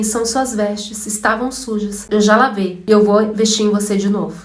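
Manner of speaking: lightly voiced God, hushed and calm; God's gentle voice. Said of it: "Deus foi e falou assim pra mim".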